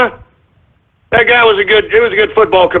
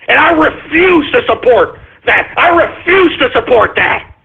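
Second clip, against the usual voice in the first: raised, pitched-up tirade at full steam; heated ranting shout; 6 semitones higher than usual. Real, not acted. Host rails at listeners to boycott the league, shouting.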